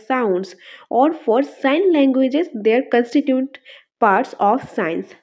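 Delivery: slow, even reading of an English definition; dictation reading. Shown as a demonstration. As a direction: read it out word by word so students can copy. Reads the English definition aloud. (ধীরে ধীরে সংজ্ঞা পড়া)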